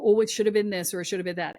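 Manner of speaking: quick, dismissive parody of regret; mocking shoulding. Mocking the listener's endless regrets, fast and dismissive. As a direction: rattle it off like a tired complaint. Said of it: "stop shoulding about it".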